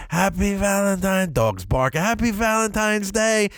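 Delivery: bright high sing-song greeting; cheerful greeting. Retold or imitated. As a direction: present the gift proudly. Greeting wife with gifts.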